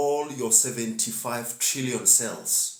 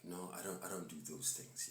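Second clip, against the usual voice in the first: mock denial; 2 semitones lower, 17 dB quieter than usual. Quoting conscious people who deny it.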